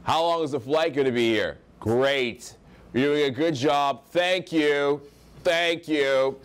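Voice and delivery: lightly mocked high value tonality; every phrase a declaration, like an assertive American; brash American traveller. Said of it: "saying everything in high value tonality".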